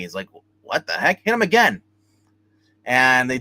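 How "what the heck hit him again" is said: high-pitched, incredulous retold outburst; exasperated order. The doctor tells them to hit him again, exasperated. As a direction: order it with rising disbelief.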